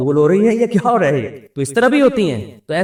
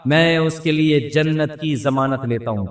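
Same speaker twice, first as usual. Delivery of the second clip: solemn quote; 2 semitones lower, slower than usual. Acted.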